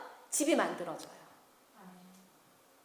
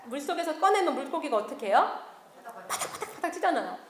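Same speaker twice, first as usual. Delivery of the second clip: usual speaking voice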